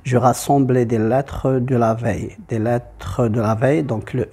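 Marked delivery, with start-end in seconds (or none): 0.0-2.3 "lettres" read with its E voiced before "de"; sounded final E. Shown as a demonstration. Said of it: "je vais faire comme ça dans la lecture". 2.5-3.8 "lettres" said as two syllables, "let-treu"; sounded final E. Shown as a demonstration. Teacher showing where the seventh syllable comes from, E of "lettres" voiced. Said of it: "E va former la syllabe avec T R".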